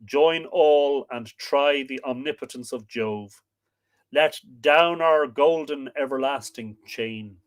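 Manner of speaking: slow, grand declamation with big swells; epic poem recital. Acted. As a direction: proclaim it like a thundering god.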